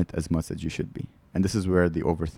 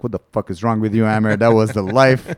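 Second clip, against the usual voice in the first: exasperated rant; 6 dB louder than usual. Retold or imitated. Ranting at himself in memory.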